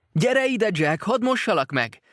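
put-on high, loud mother's call after a running boy. A narrator's reading. Mother calls her runaway son, loud and high. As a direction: shout for the child to come back and be washed. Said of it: "kiáltotta a nő".

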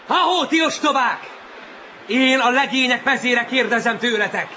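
declaimed speech to a crowd; rallying proclamation. Acted. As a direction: project to the whole colony, phrase by phrase. Victor addresses the whole seal crowd.

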